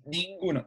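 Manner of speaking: "Ninguno" with the I sent out through the nose; nasal I. Shown as a demonstration. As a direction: let the I of "Ninguno" resonate nasally. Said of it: "la I va a salir por la nariz". ("Ninguno" con la I nasal)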